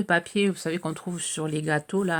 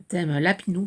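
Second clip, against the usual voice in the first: real crack in the voice, slightly louder; a slip where the voice cracks mid-word; 4 dB louder than usual. Real, not acted. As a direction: voice catches and breaks on the words. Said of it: "j'ai la voix qui déraille".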